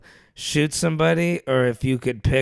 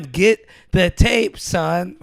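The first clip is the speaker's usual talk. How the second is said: loud, slow, raised-pitch order; retold yelling dad; 5 semitones higher, 4 dB louder, much slower than usual. Injured father overruling his pleading son, drawn-out mock yell. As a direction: imitate a father yelling, dragging each word out. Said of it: "He's yelling".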